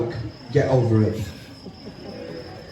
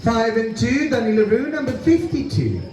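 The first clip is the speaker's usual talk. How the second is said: bingo caller. Acted. Calls bingo numbers.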